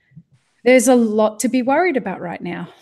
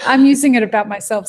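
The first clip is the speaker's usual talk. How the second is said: laughing; 6 dB louder than usual. Real, not acted. Laughing defence.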